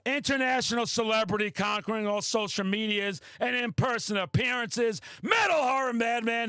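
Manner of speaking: boastful half-joking hype; mock hype announcer. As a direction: bellow your own titles like a ring announcer. Self-hype, announcing himself boastfully.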